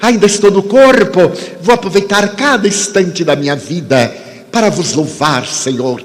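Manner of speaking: measured, fervent preaching with long pauses; sermon delivery. Acted. Preacher exhorting the audience to faith, fervent.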